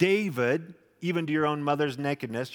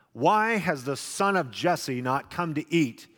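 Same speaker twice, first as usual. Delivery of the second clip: stern king. Acted. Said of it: "I can just hear the sternness in his voice".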